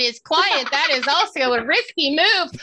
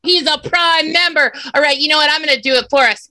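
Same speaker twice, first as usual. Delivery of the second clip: mock crying; 5 dB louder, faster than usual. Mock sobbing over scandal.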